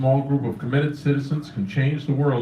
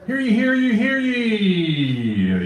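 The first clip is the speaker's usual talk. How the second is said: town crier; 6 semitones higher, slower than usual. Pretend. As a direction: call it out like a herald. Host opens open mic like crier.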